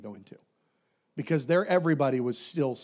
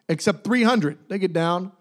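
ordinary delivery

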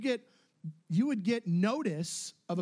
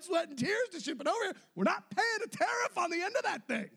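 excited defiance; 12 semitones higher than usual. Retold or imitated. Retold defiant boast, raised.

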